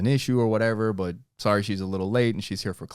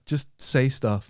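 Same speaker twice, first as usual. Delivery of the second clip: put-on girls begging; much slower than usual. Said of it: "girls used to tell me".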